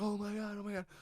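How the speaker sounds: freaking out at a comeback; excited disbelief. Retold or imitated. Watching a crazy fight, excited disbelief. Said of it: "you're like".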